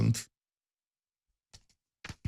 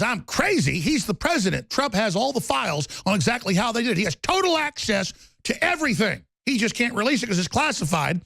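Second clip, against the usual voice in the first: lightly voiced Trump, pitched higher; a mock Trump, indignant and boastful; imitating Trump; 5 semitones higher than usual. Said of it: "And Trump goes".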